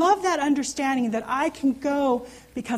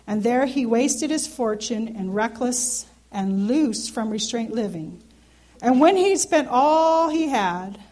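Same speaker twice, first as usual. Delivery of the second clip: scripture reading; 4 dB louder than usual. Acted. Reads the prodigal son aloud.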